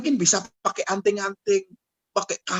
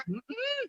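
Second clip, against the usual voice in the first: grumbled hum; 14 dB quieter than usual. Retold or imitated. Father's grumbling reply.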